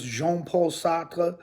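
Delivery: slow, drawn-out French accent on the name. Shown as a demonstration. Teacher showing off his French accent to viewers, slow and playful. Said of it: "how do you like that French accent".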